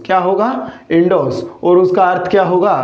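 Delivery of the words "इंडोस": "इंडोर्स" said as "indos", r silent; correct pronunciation. Shown as a demonstration. Teacher gives students the correct word, "इंडोर्स" with silent r. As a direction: drop the r in "इंडोर्स", long o into s. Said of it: "इसका correct pronunciation होगा मेरे साथियों".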